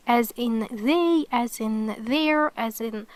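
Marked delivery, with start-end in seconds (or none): 0.7-1.3 "they" with a voiced th. Shown as a demonstration. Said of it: "pronounced like the T H". 2.0-2.5 "there" drawn out with voiced th. Shown as a demonstration. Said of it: "pronounced like the T H".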